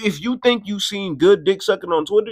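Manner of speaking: ordinary talk, nothing marked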